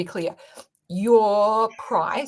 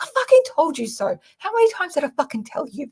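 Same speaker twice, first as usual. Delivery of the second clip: smug told-you-so; 7 semitones higher than usual. Pretend. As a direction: gloat over being right. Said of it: "And I'll be like".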